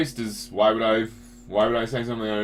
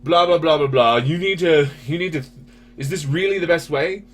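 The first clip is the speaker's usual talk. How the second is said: mocking the critics; 4 semitones higher, 6 dB louder than usual. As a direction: parrot the critics in a whiny lecture. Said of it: "So when they're like".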